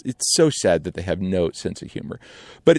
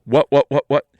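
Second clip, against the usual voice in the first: panicked whats; 5 semitones higher, 5 dB louder than usual. Retold or imitated. Crew panicking.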